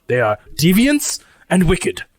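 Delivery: solemn, halting warning in a lightly put-on voice; grave robot cook. Lucy warns crew off dishonored place, grave formal character voice. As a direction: caution them earnestly, phrase by phrase.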